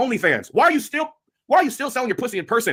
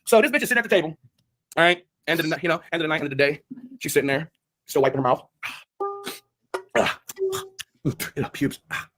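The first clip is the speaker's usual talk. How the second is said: mock skit voice; 6 semitones lower than usual. Acted skit of the woman.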